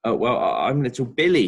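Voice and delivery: put-on a shy boy stumbling over his name; stammered. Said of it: "he stammered".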